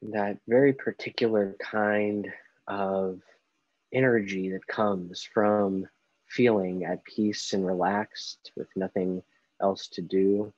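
slow, unhurried meditation guide with long pauses; guided meditation. Acted. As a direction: ease them gently through each breath, leaving space between phrases. Leads a guided breathing meditation.

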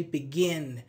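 "begin" with stress on "gin"; be-GIN, weight on the second syllable. Shown as a demonstration. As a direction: lean on the end of "begin". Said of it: "this is a stressed syllable".

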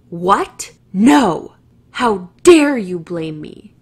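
loud, indignant shout; retold angry yell. Driver yelling at the woman who questioned him, loud and indignant. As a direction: yell back as the offended driver. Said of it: "I just got yelled at".

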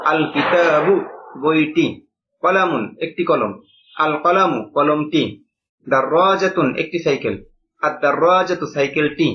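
slow, clear drill reading for students to copy; teacher reciting words slowly as a model. Shown as a demonstration. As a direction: read each word pair slowly for the class to repeat. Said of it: "আমার মতো করে পড়েন".

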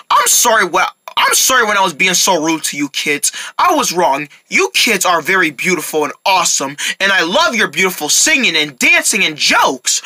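put-on low, gruff old neighbour voice; a softened grump thanking the kids; grumpy neighbour.

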